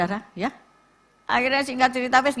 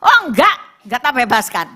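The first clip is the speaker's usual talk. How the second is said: the unforgiving debtor says no; harsh refusal; 3 semitones higher, 6 dB louder than usual. Acted.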